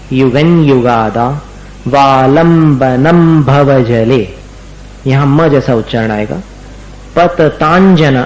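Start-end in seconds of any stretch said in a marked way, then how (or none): 0.1-1.4 युगन slow, 'n' sounded before युगादा; clear anusvara. Shown as a demonstration. Teacher repeating the word for students, slow. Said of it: "अनुस्वार का उच्चारण संयम जैसा करना". 7.2-8.2 पततांजना slow, 'anjana' sounded clearly at the end; anjana sound. Shown as a demonstration. Teacher showing the sound, slow. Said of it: "अंजना जैसा उच्चारण यहां आएगा".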